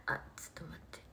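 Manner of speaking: soft whisper under breath; a quick whispered aside mid-list. Real, not acted. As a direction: whisper to yourself. Aside while reading.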